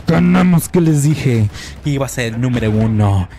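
loud triumphant ganamos and boasting; victory shout. Real, not acted. Gamer bragging to his viewers after winning, loud shout. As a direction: shout the win at your fans. Celebrating a win.

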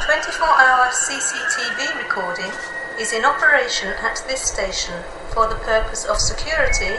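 tannoy over the platform; automated station PA voice; train station announcement. Real, not acted.

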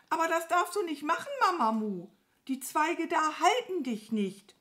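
high, flustered warning; agitated crow. A narrator's reading. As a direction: warn in a high, excited crow voice. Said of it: "flatterte aufgeregt". (aufgeregt und hoch warnen)

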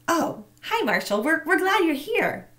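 high, flustered welcome; a hint of a jittery secretary covering worry; nervous secretary.

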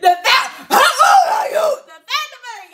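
high loud quote through laughter; cracking up while repeating it; laughing shout. Real, not acted. Laughing as she repeats the mom's question.

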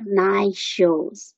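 "nice shoes" with one single sh, no s; linked NICE SHOES. Shown as a demonstration. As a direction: say "nice shoes" run together as "nai-shoes". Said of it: "读一个就可以了". ("nice shoes"连读，只读一个sh音)

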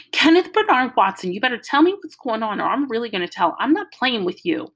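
put-on a little girl lightly copying a scolding mother; little sister mimicking mom's warning; imitating Mama. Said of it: "Joey was imitating Mama".

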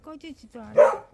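loud, high, exasperated call; loud scolding. Real, not acted. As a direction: yell it out at the excited pet. Scolding an over-excited pet.

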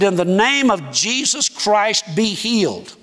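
slow, drawn-out prayer command; retold prayer, stretched out; healing prayer. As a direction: pronounce the healing slowly and deliberately. Acts out his healing prayer.

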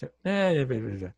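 mock brush-off, dropping away; dismissive. Teller dismisses the returning thought, mock dismissive. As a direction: shoo the thought off with nonsense. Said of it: "Dismiss the thought".

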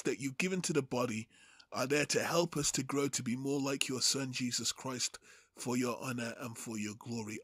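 calm, earnest prayer addressed to the Father; spoken prayer. Real, not acted. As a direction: pray sincerely, settling into the words. Pastor prays before the teaching.

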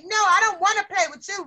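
a brisk, half-hearted yell of rejection; mock yell. Teacher acting out a yelling classmate for a pupil, mild mock yell. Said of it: "if somebody yelled at you and said".

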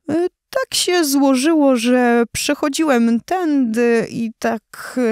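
sheepish hesitant lion. Acted. Proud lion awkwardly apologising.

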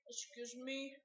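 tossing off "Excuse me" under the breath; mumbled excuse me. Pretend. Child prompted to apologise for burping, mumbling it. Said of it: "What do you say?".

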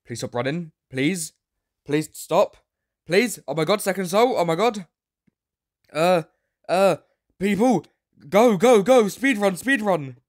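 high, loud panicked begging; desperate squeal chasing players; frantic pleading. Real, not acted.

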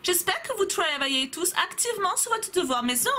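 high mock English-German accent; teacher's put-on accent. Teacher reminding the class about homework, English-German accent. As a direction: sound like a foreign teacher mixing English and German. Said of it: "mon mélange d'anglais et d'allemand".

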